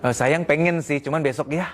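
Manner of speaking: gentle refusal. Shown as a demonstration. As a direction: kindly put it off till tomorrow. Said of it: "Sebenarnya istri tuh ngomongnya begini". (istri menolak dengan lembut)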